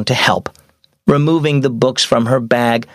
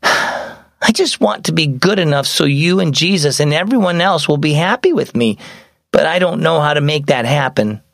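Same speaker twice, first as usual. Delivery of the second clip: lightly voiced wistful girl, higher; troubled young girl; 3 semitones higher than usual. Mia opening up to Mom, mildly troubled girl. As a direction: admit it with a touch of helplessness.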